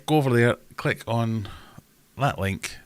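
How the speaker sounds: high-pitched, lilting Irish accent. Shown as a demonstration. Streamer urging viewers to join up, in an Irish accent. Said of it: "doing an Irish accent".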